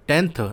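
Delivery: "टेंथ" with its final TH sounded out; TH ending. Shown as a demonstration. Teacher telling tenths from tens, TH ending marked. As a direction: make the TH closing "टेंथ" clearly heard. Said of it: "टीएच वाला".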